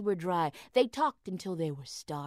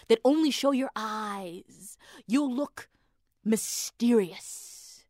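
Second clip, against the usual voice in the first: coaxing; 3 dB louder, slower than usual. Acted. Husband coaxes wife slowly.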